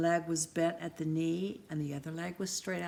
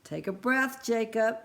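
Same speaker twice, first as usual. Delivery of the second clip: smiling; 4 semitones higher, 5 dB louder than usual. Acted. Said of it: "with a big smile".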